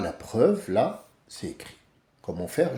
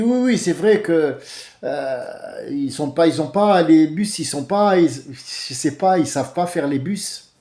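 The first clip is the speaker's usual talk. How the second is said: light North African accent, imitating; a hint of an Arabic accent on the complaint; 3 semitones higher, 3 dB louder than usual. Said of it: "Mais avec l'accent arabe". (léger accent arabe imité)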